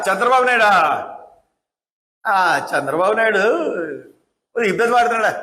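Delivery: mocking Chandrababu నాయుడా, stress on Chandrababu, falling; scornful mock call of the chief minister; sarcastic address. Shown as a demonstration. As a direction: sneer the name out. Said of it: "ఇది వ్యంగ్యం".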